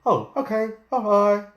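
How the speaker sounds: high, loud cartoon frog sign-off; wide mouth frog. Frog leaving the lion, high cartoon frog voice. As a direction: sing out the farewell in a big frog voice. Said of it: "So the wide mouth frog says".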